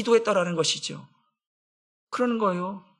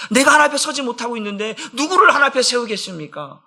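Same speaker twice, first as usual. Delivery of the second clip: normal talking voice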